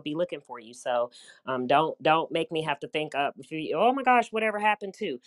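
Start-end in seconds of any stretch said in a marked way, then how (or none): 3.8-5.2 mock surprise. Imagined forgetful caller, high pitch.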